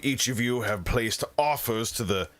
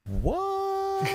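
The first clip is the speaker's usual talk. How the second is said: shocked. Acted. Zanita stunned by huge bid.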